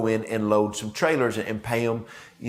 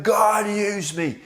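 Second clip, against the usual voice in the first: slow, high, drawn-out fervent plea; a high, slow mock-zealous prayer; chest-beating prayer; 8 semitones higher, much slower than usual. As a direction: beg it out, much higher and slow. Young self's chest-beating prayer.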